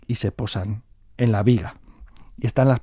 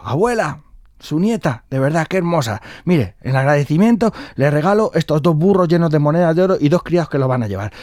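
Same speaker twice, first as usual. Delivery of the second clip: effusive thanks, pitched higher; very grateful king; 5 semitones higher than usual. Acted. The king thanks his bride's grandmother, effusively grateful. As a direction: proclaim gratitude with lifted voice. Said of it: "el rey agradecidísimo".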